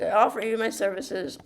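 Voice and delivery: put-on rough stab at an Irish accent; amateur Irish-accented pledge; attempted Irish accent. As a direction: practise the pledge in light Irish. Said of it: "if that was an extremely offensive accent".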